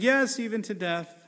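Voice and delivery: mock stubborn prophet; stubborn Jonah. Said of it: "And he's like".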